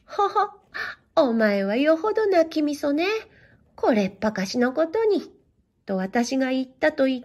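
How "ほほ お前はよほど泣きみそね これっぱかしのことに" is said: a light, higher laughing tease; older sister amused, teasing the little crybaby. Acted. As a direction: chuckle while teasing the crybaby. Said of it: "あんまりおかしかったから".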